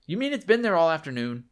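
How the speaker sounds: a neighbor caught off guard, loud and high; startled question. Acted. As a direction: ask it like you just can't believe it. Neighbor shocked at hanging bundle.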